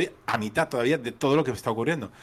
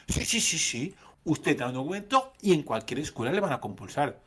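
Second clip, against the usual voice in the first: tono prepotente. Retold or imitated. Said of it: "me lo decía con un tono potente".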